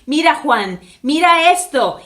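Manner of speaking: gritar como a un sordo; a voces. A narrator's reading. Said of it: "le dijo a voces como si hablara con un sordo". (a voces, como si hablara con un sordo)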